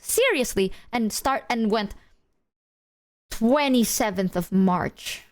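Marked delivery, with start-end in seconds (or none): 3.3-5.2 slow, flat deadpan delivery of a date; deadpan stone face. Retold or imitated. Dad answering a dementia worry with a date, deadpan. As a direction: state it dead serious, unblinking. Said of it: "looked me dead in the eye, like, stone, straight, dead-ass face".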